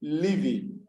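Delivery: "living" said slowly for its two parts; careful teacher's "living", both syllables distinct; syllable demonstration. Shown as a demonstration. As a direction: show the two beats in "living". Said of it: "the way I pronounce it".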